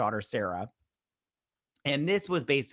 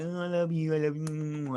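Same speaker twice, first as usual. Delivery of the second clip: mock gushing affection; 3 semitones higher than usual. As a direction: coo it through a pretend hug. Acting out a gushy hug.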